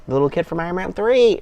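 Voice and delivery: excited recognition. Retold or imitated. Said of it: "and I'm like".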